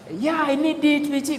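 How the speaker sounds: high-pitched, eager acceptance; imagined eager buyer. Pretend. Imagined friend agreeing to buy, eager. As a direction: agree at once in a lifted voice.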